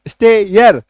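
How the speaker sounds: स्टेयर slowly, स्टे gliding into यर; drawn-out pronunciation. Shown as a demonstration. Teacher joining the two sounds for students, drawn-out pronunciation. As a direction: stretch both sounds of स्टेयर. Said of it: "है ना, दो sound".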